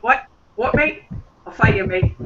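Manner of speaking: put-on lightly done Australian accent, playful; a hint of Aussie, teasing. The speaker teasing Annalise over Emmett, mild Australian accent. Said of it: "in a perfect Australian accent that I kinda can't pull off".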